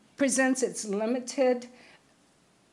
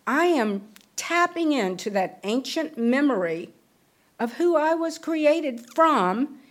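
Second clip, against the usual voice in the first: rising preaching; 2 semitones higher than usual. Real, not acted. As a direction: build it up like a sermon peak. Preaching climax on faith.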